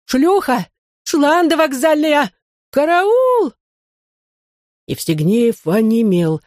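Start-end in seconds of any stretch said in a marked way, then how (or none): 0.1-3.5 panicked scream. A narrator's reading. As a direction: shriek for help in a panic. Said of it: "всполошно заорала". (всполошный пронзительный крик)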